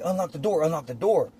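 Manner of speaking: imitated pleading from outside; retold plea. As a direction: urge her to open up, acted out. Repeats plea to sister through window.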